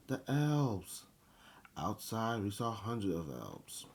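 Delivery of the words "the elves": high, loud excited cry; child's shout. A narrator's reading. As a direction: shout it out to point something out. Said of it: "shouted one of the children".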